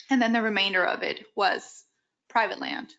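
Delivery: strained, failing voice; losing her voice. Real, not acted. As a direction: talk through a voice that's giving out. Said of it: "I'm losing my voice".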